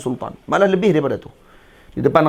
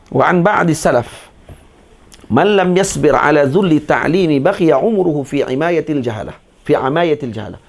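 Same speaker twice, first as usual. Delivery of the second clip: slow, firm reading of Arabic; formal teacher reciting from a kitab; Arabic text recitation; 3 dB louder than usual. Acted. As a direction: read out the scholar's saying deliberately. Reads the Arabic text aloud.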